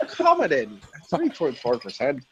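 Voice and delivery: slow mock-Irish, laughing; amused Irish mimicry; imitating Irish accent. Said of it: "As an Irishman".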